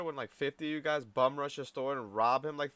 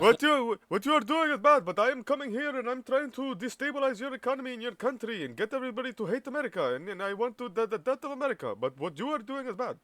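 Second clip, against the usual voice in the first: much higher, louder, hammed-up foreign-accented protester; mocking protester voice; 11 semitones higher, 5 dB louder than usual. Mocking the protesters in a shrill, much higher caricature voice. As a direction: squeal it like a ridiculous caricature. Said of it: "you see how stupid you sound".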